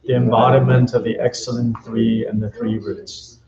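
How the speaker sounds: even, measured chant-like prayer reading; prayer recitation. Real, not acted. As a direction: recite the prayer steadily, line by line, on a level tone. Recites refuge and bodhicitta prayers.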